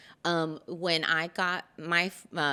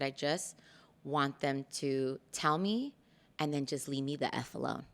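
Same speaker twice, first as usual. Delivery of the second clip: hushed, fed up; 2 semitones lower, 6 dB quieter than usual. Retold or imitated. Quiet weary wish told to her husband. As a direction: say it softly, worn out.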